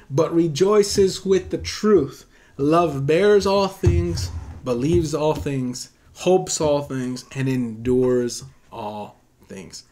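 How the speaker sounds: slow, emphatic Bible recitation; scripture reading. Acted. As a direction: proclaim each clause slowly, settling down on the last. Reads scripture aloud to congregation.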